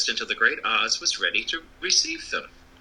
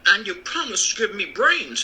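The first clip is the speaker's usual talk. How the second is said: Scarecrow voice; 8 semitones higher than usual. A narrator's reading. Scarecrow claims his promise.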